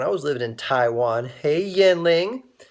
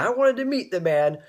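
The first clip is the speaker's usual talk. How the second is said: lightly imitated Swaziland accent, pitched up at first; 3 semitones higher than usual. Ambassador meeting the young fundraiser, in a lightly imitated Swaziland accent. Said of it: "he said it with his Swaziland accent".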